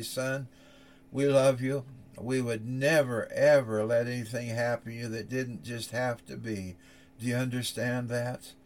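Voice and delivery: soft, hushed reassurance; tender farewell. Acted. Father softly telling his son they love him. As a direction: hold his hands and speak gently.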